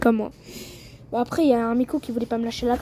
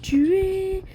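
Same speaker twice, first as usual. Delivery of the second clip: excited taunt; 7 semitones higher, slower than usual. Real, not acted. Streamer taunting enemy, escalating.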